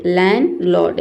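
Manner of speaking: लैंडलॉर्ड as "lan-lord", first D dropped; silent D. Shown as a demonstration. Teacher shows how we will read it, silent D. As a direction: go from N straight into L in लैंडलॉर्ड. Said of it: "डॉ को नहीं पढ़ेंगे".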